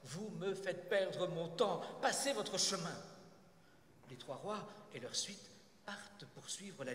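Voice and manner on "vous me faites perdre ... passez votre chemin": exasperated interruption. Acted. Nathan stopping the third king, exasperated. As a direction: send them off, stressing each word. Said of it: "Nathan le stoppe".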